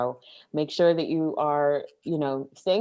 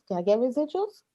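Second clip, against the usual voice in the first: pleading; 9 semitones higher, faster than usual. Acted. Begging for residuals playfully.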